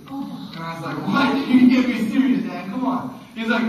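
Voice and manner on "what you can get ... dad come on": incredulous. Retold or imitated. Son can't believe his dad.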